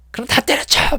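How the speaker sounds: high mock yell of a coworker; retold shout. Coworker who always shouts, sudden high yell. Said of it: "이렇게 막 소리를 질러요".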